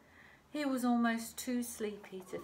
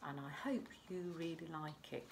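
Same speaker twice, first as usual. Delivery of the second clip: soft whisper; 6 dB quieter than usual. Real, not acted. Teacher to children before the story, whispering. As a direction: breathe it like a secret.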